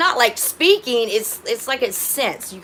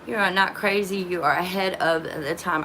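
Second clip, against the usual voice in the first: ordinary delivery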